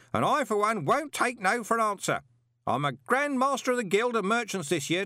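high, loud, cheerful bellow. A narrator's reading. Parker cheerfully bellowing about his late spouses. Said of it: "bellowed cheerfully".

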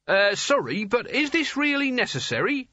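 high, anxious polite voice; nervous plea. A narrator's reading. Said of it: "Nigel's nervous plea".

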